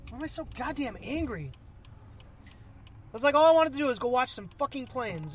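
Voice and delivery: frustrated, sweary venting; exasperated outburst, stressing the curses; real angry rant. Real, not acted. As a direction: rant angrily at yourself behind the wheel. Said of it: "I'm angry right now".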